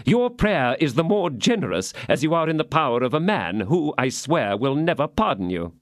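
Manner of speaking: threatening baron. Acted.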